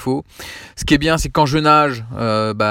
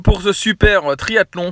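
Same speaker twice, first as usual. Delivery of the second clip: cheering; 13 semitones higher, much slower than usual. Real, not acted. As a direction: shout congratulations across the room. Congratulating friend on triathlon win.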